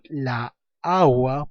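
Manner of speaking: "la agua" with the a's meeting in one long vowel; cacophony example. Shown as a demonstration. Teacher showing what one cannot say, drawn-out cacophony. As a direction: stretch the touching a's of "la agua". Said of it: "yo no puedo decir".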